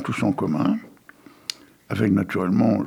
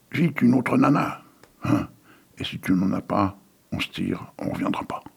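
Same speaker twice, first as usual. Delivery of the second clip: foule exigeante. Acted. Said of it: "la foule alors cria".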